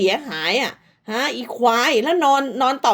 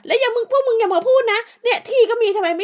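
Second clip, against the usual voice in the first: mock quote; 10 semitones higher than usual. Mocking the other woman's words.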